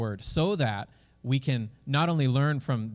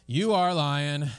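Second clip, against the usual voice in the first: slow, drawn-out, louder reply; lightly acted tiger giving in; tiger conceding; 2 semitones higher, 4 dB louder, much slower than usual. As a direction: stretch out the grudging answer. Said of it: "And the tiger says".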